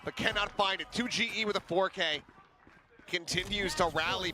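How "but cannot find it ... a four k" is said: raised hype call; esports caster. Real, not acted. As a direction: build the one v one tension. Hyped play-by-play call.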